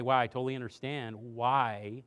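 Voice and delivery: soft empathetic. Shown as a demonstration. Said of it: "I have to say".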